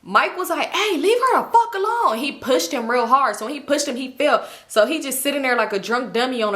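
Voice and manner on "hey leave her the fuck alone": high-pitched imitated telling-off; mock protective outburst; acted warning. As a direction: step in sharply, replaying an argument. Friend steps in, acted quarrel.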